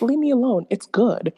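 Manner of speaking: laughing brush-off. Retold or imitated. Caller brushing off husband while laughing, playful. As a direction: wave him off through a laugh. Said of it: "And I'm like".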